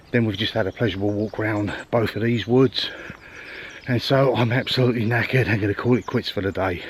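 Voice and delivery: winded, breathing between phrases. Real, not acted. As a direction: talk while still catching your breath. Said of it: "I'm out of breath".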